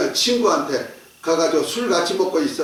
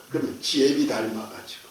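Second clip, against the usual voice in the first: grumbling wife; 7 semitones lower, 6 dB quieter than usual. Retold or imitated. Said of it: "아내가 남편을 두고 하는 욕".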